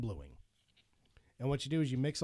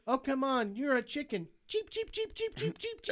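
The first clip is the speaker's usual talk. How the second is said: Tommy Wiseau impression; 13 semitones higher than usual. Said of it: "fight scene in that movie between Tommy Wiseau".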